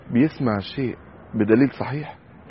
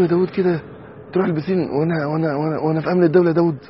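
half-joking rebuke, quick and raised; mock scolding; 6 semitones higher, 4 dB louder than usual. Father jokingly scolding his son Dawood over the pool, in mock outrage. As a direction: tease the son for going to the pool, with a hammed-up edge. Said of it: "بقول له".

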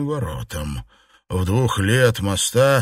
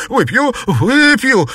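frightened yelp; 12 semitones higher, 7 dB louder than usual. Acted. Xuepan fears the raised fist.

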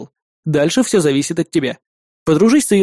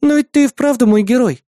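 put-on high, earnest girl's protest, stress on ты; objecting little sister; 8 semitones higher, 4 dB louder than usual. Sister objecting to her brother, earnest. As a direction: insist sweetly, pushing back. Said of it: "возразила она".

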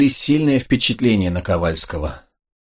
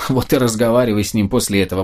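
impatient; faster than usual. Acted. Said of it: "воскликнул с нетерпением Мирский".

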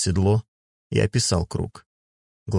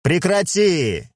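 slow, raised command from a father; stern shout; 11 semitones higher, 3 dB louder, much slower than usual. A narrator's reading. Klai orders his daughter to stop honking, slow raised shout. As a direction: call out to stop her, stretched and firm. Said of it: "крикнул Клай".

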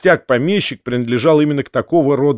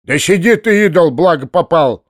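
louder, raised-voice scolding; gruff worker telling him off; stern retort; 5 semitones higher, 5 dB louder than usual. A narrator's reading. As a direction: snap back sternly at a troublemaker. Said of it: "сурово отвечал Архип".

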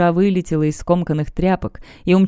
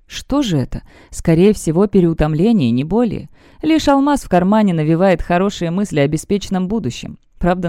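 put-on old prospector. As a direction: read it as a greedy adventurer bragging. Diary continues.

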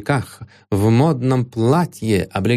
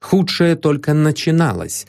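ordinary delivery, nothing marked

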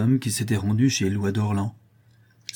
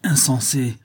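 exclaimed; 4 semitones higher, 3 dB louder, slower than usual. Acted. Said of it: "s'écria Jeanne".

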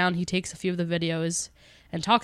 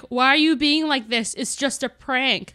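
mock exasperated mom, higher and slowing at the end; dismissive mom; 4 semitones higher, slower than usual. Mom to her upset kids, mock dismissive exasperation. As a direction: lightly imitate a parent shrugging off the upset. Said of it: "The same thing with the mom".

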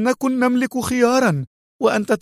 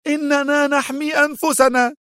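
very high, agitated outburst; extremely edgy; 13 semitones higher than usual. A narrator's reading. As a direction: burst out defensively, pitch shooting up. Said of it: "قالت بمنتهى العصبية".

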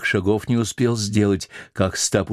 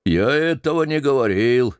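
sulky; 5 semitones higher than usual. Acted. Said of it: "снова насупившись".

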